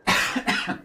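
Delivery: choking on an inhaled fly; just swallowed a bug. Real, not acted. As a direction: cough through a swallowed bug. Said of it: "I think I inhaled a fly".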